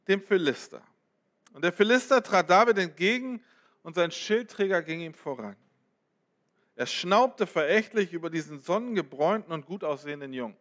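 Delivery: dramatic Bible reading to the congregation; scripture reading. Acted. Preacher reads the David and Goliath passage aloud, dramatic reading. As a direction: read the battle scene like a story to the church.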